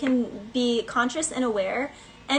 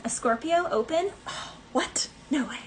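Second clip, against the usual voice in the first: mock surprise; 3 semitones higher than usual. Mock disbelief at Scorpio opening.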